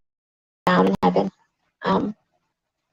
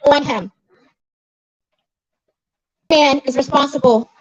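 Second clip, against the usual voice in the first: raised pitch, emphatic public condemnation; indignant rebuke; 4 semitones higher than usual. Real, not acted. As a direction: call them out with real outrage. Rebukes the newspaper over sister's death.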